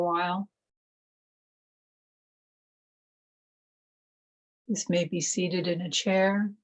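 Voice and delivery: calm, measured meditation voice with long pauses; guided meditation. Acted. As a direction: gently guide them into stillness, one phrase at a time.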